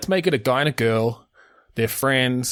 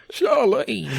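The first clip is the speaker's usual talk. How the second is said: laughing; 11 semitones higher than usual. Real, not acted. Laughing at Neighbours name.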